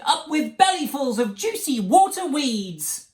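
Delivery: high, loud happy chant; whooping herd cheer; hooting. A narrator's reading. Duckbill herd hooting with delight, high loud hoot. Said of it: "And they hooted".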